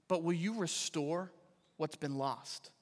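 David pleading with the Lord, hushed; hushed plea. Acted. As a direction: pray it quietly, barely there. Quoting David's prayer.

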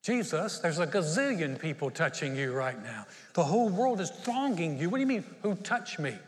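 exasperated, a bit incredulous; mock the obvious, as if he's missing it; half-teasing disbelief at Jesus; eye-rolling disciples. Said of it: "rolling their eyes going".

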